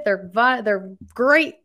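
talking through hiccups; words broken by a hiccup. Real, not acted. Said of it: "Excuse me, I have the hiccups".

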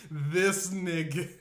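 slow words through loud laughter; laughing. Real, not acted.

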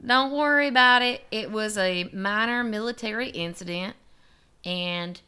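mild put-on accent, nothing like French; failed French accent. Officials reassuring a worried family, in a botched French accent. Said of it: "what I'm doing is not a French accent".

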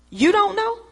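high, rising question; incredulous tone. Retold or imitated. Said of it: "but my tone changed".

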